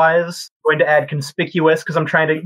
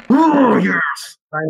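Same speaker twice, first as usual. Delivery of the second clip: excited cheer; 3 semitones higher, slower than usual. Real, not acted. Good roll result.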